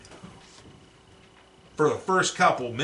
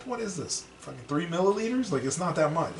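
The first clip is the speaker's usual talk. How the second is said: mock outrage; 6 semitones higher than usual. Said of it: "And I was like".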